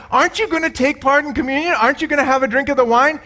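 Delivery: a tipsy priest urging his friend; eager priest. Retold or imitated. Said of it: "The priest says to the rabbi".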